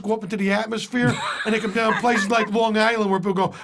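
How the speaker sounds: broad Boston delivery, words stretched for comic effect; Boston accent. Acted. Telling a bar story about unpronounced R's, Boston accent. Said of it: "there's Boston. ... they don't pronounce the letter".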